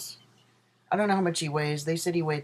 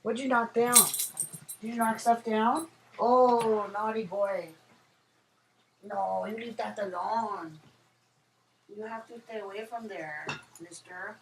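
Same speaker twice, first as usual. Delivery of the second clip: dog voice; 6 semitones higher than usual. Real, not acted. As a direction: gently scold a naughty puppy, pitched up. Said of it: "I sound way more girly when I talk to my dog".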